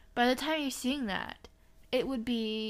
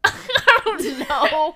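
laughing; 4 semitones higher, 12 dB louder, much slower than usual. Real, not acted. Laughing at the question.

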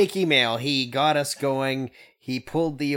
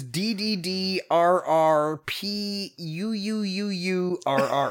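Swedish chef. Retold or imitated. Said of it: "supposed to be the Swedish chef".

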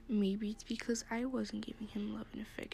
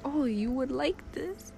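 eager gift-giver; 4 semitones higher, 5 dB louder than usual. Acted. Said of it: "I'm like".

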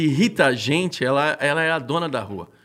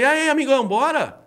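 louder, higher mock dare to fight; taunting challenge; 9 semitones higher, 3 dB louder than usual. Challenging the stalled driver to step out, loud taunting. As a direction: egg the other driver on, cocky and loud. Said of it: "eu falei".

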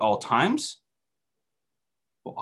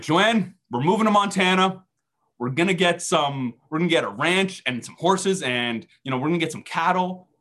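higher, lightly acted enthusiasm; retold burst of eagerness; mock excited announcement; 4 semitones higher than usual. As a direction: pitch a big new plan, half-joking. Acts out announcing move to wife.

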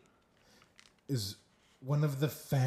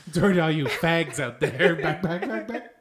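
loud mock apology into rhythmic chant; sportscaster punching out repeats through laughter; Chris Berman; 2 semitones higher, 6 dB louder than usual. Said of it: "It's Chris Berman".

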